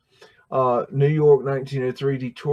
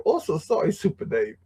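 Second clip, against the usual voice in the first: a hint of mock Asian accent, higher on oh; lightly imitated Asian-accented apology; teasing mock Asian accent; 5 semitones higher than usual. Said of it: "I go".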